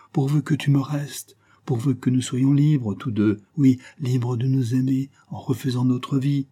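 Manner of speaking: supplication aiguë et haletante, parfois plus forte; supplie-le à travers la porte, la voix montant d'angoisse; implorer. Acted. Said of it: "continuait à implorer". (Diana supplie son amant derrière la porte, voix implorante)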